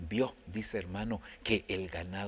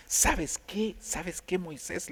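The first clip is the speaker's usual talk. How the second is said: high, raised voice of God confronting Moses; God speaking; 10 semitones higher, 4 dB louder, much slower than usual. Retold or imitated. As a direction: call him out from above, higher and louder.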